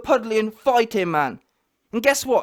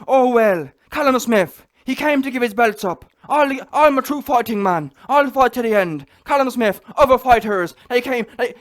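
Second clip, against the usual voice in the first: mocking his voice; 3 dB louder than usual. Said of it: "I can't even do the voice".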